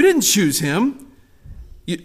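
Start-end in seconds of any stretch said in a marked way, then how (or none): none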